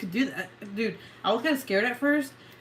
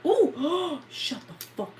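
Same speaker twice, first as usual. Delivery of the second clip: high, soft, slow, about to cry; tearful surprise; 11 semitones higher, 9 dB quieter, slower than usual. Real, not acted. Overwhelmed by a surprise gift from viewers, high teary voice. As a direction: choke up over the gift.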